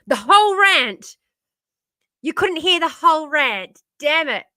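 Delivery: real loud frustration; frustrated. Real, not acted. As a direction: moan about the lost rant. Lost rant to muted mic.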